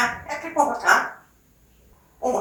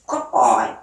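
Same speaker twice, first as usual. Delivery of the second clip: low praise; 12 semitones lower, faster than usual. Real, not acted. Praising the bird.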